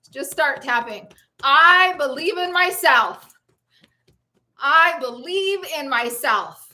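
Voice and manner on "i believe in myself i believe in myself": firm, emphatic affirmation; with conviction. Shown as a demonstration. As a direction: declare it like you mean it. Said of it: "Say it with conviction".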